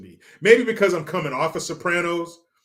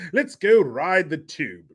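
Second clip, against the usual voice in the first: slow, lightly put-on British; measured British imitation; mock British accent; 3 dB louder, slower than usual. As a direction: try it out in careful fake British. Trying out British slang.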